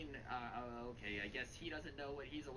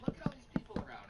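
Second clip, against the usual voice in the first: repeated faster and louder in mock outrage; 6 semitones higher, 6 dB louder, faster than usual. Mother scolding son in store, louder mock repeat. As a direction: hammer it home, faster and louder. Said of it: "she looks at her son and goes".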